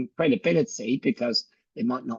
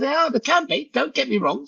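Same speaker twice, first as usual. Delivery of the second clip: emphatic; 11 semitones higher than usual. Retold or imitated. Retorting to partner.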